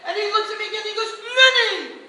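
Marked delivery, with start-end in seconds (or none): 1.2-2.0 loud, high laughing stage patter; hammy host bit; cheesy showman. Retold or imitated. Performer hamming an old joke at Lenny.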